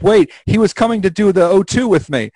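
high-pitched imitated objection; mock protest. Host voices player defending Blue as voting ends, mock protest. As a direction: blurt a last-second defence of a teammate.

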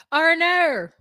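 shocked Australian woman's "oh no"; Australian woman's accent. Shown as a demonstration. Friend trying the accent game, exaggerated Australian accent. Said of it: "get into an Australian woman's accent".

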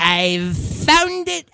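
slow, hesitant stretched vowels; lightly imitated mom, searching her memory; mom trying to remember. Son imitating his mom remembering, slow searching delivery. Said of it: "like if she's trying to remember something".

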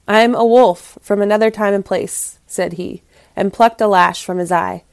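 expressive, dramatic storyteller read; story narration. A narrator's reading. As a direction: read it aloud like a fable with lively emphasis. Reads the story aloud.

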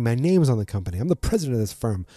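lightly annoyed, putting on self-importance; tipsy, a little annoyed. Retold or imitated. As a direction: imitate a mildly drunk, indignant boss. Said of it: "you can see he's a little drunk. He's a little annoyed".

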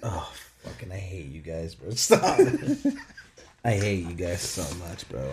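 breathless laughter; can't stop laughing. Real, not acted. Laughing after the dare.

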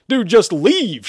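high, drawn-out loud yell; shout. Acted. Shepard orders the demon to leave, shouting. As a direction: yell it, stretching the words. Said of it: "Shepard shouted".

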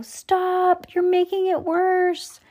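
high panicked scream. A narrator's reading. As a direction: beg him to stop. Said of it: "Lucy screamed".

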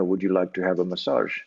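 roughly imitated Indian accent; lightly attempted, unconvincing Indian accent; bad Indian accent. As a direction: put on a clumsy Indian accent. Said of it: "I'm gonna do a bad, uh, Indian accent".

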